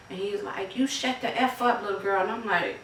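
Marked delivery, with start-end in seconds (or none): 0.8-2.2 retold yell. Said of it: "he was cussing, screaming".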